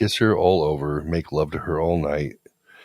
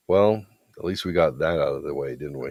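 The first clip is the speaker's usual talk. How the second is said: even, unhurried reassurance; calm. Retold or imitated. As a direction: say it calmly to smooth things over. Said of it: "I say calmly".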